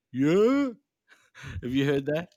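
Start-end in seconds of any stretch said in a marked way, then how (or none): 0.1-0.7 high, rising New York "Yeah?" like "yo". Retold or imitated. Mimicking how New Yorkers greet each other, New York accent. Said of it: "people say".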